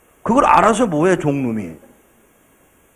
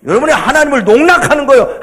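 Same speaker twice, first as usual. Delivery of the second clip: ordinary talk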